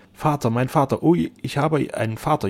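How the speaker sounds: high, loud burst of joy; jubilant. A narrator's reading. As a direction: exult with full feeling. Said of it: "jubelte Otto".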